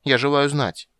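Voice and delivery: a sulky demand; a princess asking sullenly; sullen question. A narrator's reading. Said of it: "угрюмо спросила Цири".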